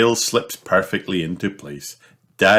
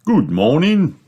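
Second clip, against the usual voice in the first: much higher, louder beaming greeting; 10 semitones higher, 5 dB louder than usual. Acted. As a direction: greet them like a beaming shopkeeper. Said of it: "beams Mister Fox".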